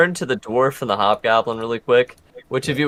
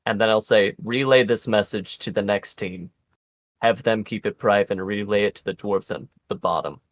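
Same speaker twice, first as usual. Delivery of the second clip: gravelly sly hobgoblin. Acted. NPC whispered warning.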